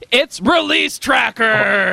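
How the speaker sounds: loud, slow hyped announcer; used car salesman voice. Acted. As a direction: sell it like a pushy car dealer. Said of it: "hardcore, edgy voice that people say is a used car salesman".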